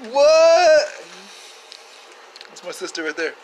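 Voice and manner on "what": high, loud, stunned what; a hammed-up yelp of disbelief; shocked shout. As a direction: blurt it out in mock horror. Shocked by his own conclusion.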